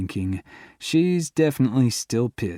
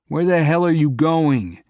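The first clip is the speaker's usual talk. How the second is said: higher, louder yell after her; 6 semitones higher, 6 dB louder than usual. Acted. Chasing his girlfriend along the highway, yelling. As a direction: call out as she runs off. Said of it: "I yell".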